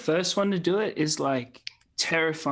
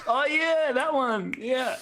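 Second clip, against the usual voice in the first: excited recognition; 9 semitones higher, much slower than usual. Real, not acted. Recognizing the famous bail video.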